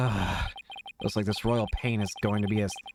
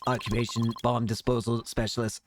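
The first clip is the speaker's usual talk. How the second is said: robot voice. Acted. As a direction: speak like a typing machine. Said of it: "what a strange robotic voice you have".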